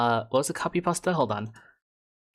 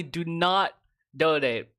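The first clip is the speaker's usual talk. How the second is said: ordinary delivery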